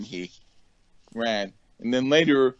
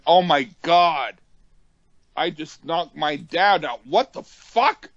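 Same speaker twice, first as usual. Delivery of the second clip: stunned disbelief, climbing high at the end; acted shock; 4 semitones higher than usual. Acted shock after punching his dad.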